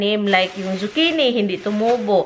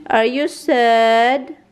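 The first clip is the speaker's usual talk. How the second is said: tender; 3 semitones higher, 4 dB louder, much slower than usual. Real, not acted. Asking her sad dog.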